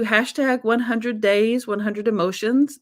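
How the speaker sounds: slow, careful read of "hashtag one hundred days"; slow spelled-out hashtag. Shown as a demonstration. Host telling viewers the hashtag, slowly and carefully. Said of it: "That's the numerical number one hundred".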